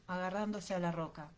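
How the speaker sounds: usual speaking voice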